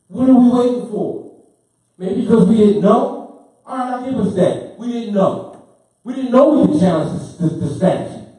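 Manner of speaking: pumped, pushing the room to answer; hyped. Real, not acted. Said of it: "My apology for getting hyped".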